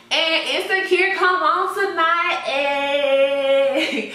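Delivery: hyped, high and loud; excited. Real, not acted. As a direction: cheer it out, thrilled. Hyped about favorite show.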